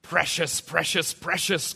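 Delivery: crying out like Gollum over his ring. Acted. Preacher reading Tolkien, Gollum crying for his ring. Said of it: "Gollum cried".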